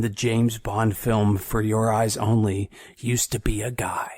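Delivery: breathy secret whisper. Real, not acted. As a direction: whisper the punchline like gossip. Secret-sharing trivia reveal.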